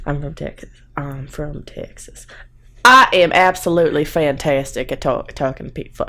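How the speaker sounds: put-on fumbling for a Texas accent; terrible Texas accent. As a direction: put on a clumsy Southern accent. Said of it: "I have a terrible accent".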